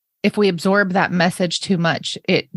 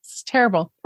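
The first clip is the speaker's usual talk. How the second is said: ice in mouth; 2 semitones lower than usual. Real, not acted. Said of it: "I have ice in my mouth".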